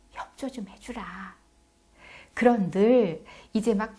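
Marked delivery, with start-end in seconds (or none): 0.1-1.4 soft plea. Acted. Plea to children, acted.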